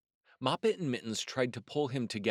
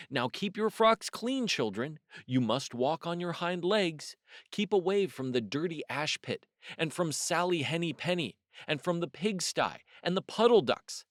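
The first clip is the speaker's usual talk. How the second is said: a bright, higher mother voice scolding gently; mother cat's warning; 5 semitones higher than usual. Acted. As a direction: warn the children like a fussy mother. Mother warns kittens before tea.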